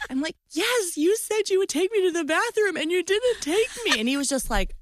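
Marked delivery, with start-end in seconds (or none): 0.5-4.0 high-pitched, hammed-up wail; tearful complaint. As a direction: wail the accusation through put-on tears. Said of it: "I start crying loudly".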